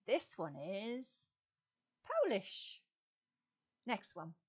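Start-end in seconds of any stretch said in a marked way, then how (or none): 0.5-2.8 excited reveal. Acted. Quiz answer reveal.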